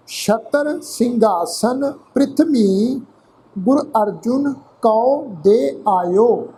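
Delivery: measured, drawn-out reading of Gurbani verse; slow scripture recitation. Shown as a demonstration. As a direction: recite each phrase slowly with pauses.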